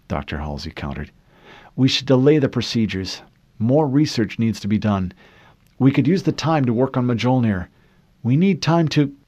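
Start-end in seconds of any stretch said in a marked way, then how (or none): 1.8-9.1 louder, rising urgency; urgent pleading. Acted. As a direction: plead to delay, building. Halsey pleading, cut off.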